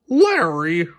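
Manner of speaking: high grumbling complaint; fed-up partner grumbling; grumbled. Acted. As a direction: Bob grumbling at Larry's skateboarding. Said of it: "grumbled Bob".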